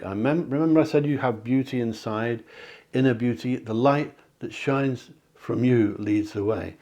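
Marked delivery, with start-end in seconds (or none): 3.5-6.7 slow card reading. Acted. Card message read slowly.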